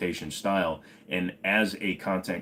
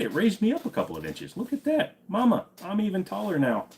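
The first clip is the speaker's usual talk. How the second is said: hammed-up Southern accent, much higher than usual; 7 semitones higher, 3 dB louder than usual. Joking with stream viewers about chairs, in a Southern accent. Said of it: "slipping into a southern accent".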